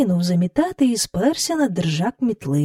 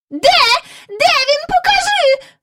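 put-on high, loud, gasping old lady; breathless exclaiming; 4 dB louder than usual. A narrator's reading. Miss Lark breathlessly begs Michael to show her the dog, high and loud. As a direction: grab at the news, out of breath. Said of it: "вигукнула міс Жайворон".

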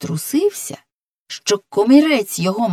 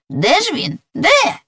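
questioning; 8 semitones higher than usual. Acted. Puzzled robot looking for someone.

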